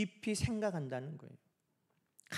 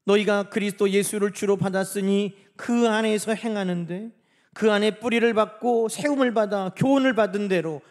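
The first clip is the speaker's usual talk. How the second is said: loud, declaimed verse; emphatic pulpit reading; scripture reading; 7 dB louder than usual. Real, not acted. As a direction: read it out firmly to the congregation. Reads scripture aloud.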